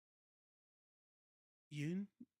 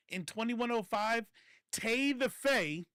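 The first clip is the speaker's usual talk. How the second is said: grand proclamation; 6 semitones higher, 6 dB louder, slower than usual. Acted. Dramatic prophecy about Tay.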